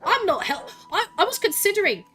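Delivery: indignant, exasperated telling-off; aggrieved rant; really mad. Real, not acted. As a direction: argue back, offended at being called a thief. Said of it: "I'm just really mad".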